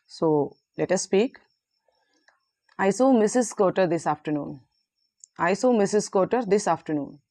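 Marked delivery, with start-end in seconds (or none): 2.8-4.5 "afternoon" falls away at the end; falling intonation. Shown as a demonstration. Teacher models a declarative sentence, falling tone on "afternoon". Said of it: "Use falling intonation towards end". 5.4-7.2 statement tune, pitch dropping through "afternoon"; falling intonation. Shown as a demonstration. Teacher repeats the model statement, falling tone on "afternoon". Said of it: "Use falling intonation towards end".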